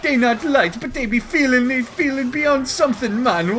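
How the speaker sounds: loud, high stoner voice; goofy high voice. Acted. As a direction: ramble like a dopey goof. Goofy character rambling.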